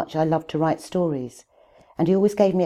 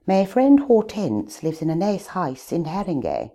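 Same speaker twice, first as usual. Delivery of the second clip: elocution English. Shown as a demonstration. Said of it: "I could now say".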